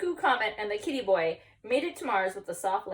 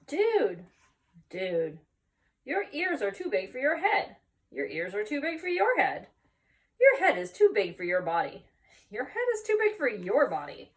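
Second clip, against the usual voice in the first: teasing voice; 2 semitones higher, 4 dB louder than usual. Acted. Dog teasing the creature.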